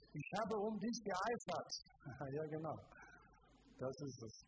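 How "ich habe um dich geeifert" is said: whining. Retold or imitated. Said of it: "jammerte Gott".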